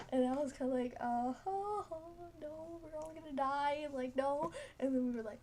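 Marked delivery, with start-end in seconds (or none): 1.0-4.5 mock panic. Panicking after cup moved.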